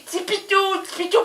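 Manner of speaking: high, soft cooing; cooing to pet. Retold or imitated. Owner cooing softly to the cat. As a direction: coax the cat sweetly. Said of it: "Tu dis".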